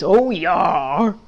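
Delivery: bleating oh yes from the flock; eager sheep voice; sheep chorus. Acted. Sheep happily accept the back scratch offer, bleating.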